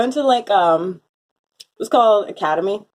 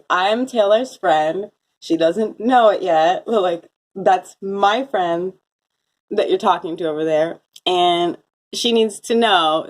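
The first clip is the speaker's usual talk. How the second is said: slow, deliberate, barely-held annoyance; annoyed, slow; slower than usual. Retold or imitated. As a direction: spell it out slowly, irritated. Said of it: "really annoyed 'cause I'm like".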